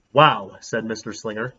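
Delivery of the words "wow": low and louder, stunned; a dumbstruck grown-up wow; amazed wow. Acted. The teacher reading the note, stunned and touched.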